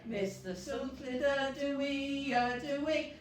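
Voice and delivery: loud slow chant with shouted hoorays; joyful hooray song; cheerful cheer. Acted. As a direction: cheer it out big for the kids. Cheerful finale verse.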